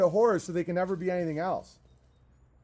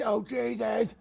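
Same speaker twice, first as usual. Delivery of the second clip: mock cry; 3 semitones higher, slower than usual. Shout over music.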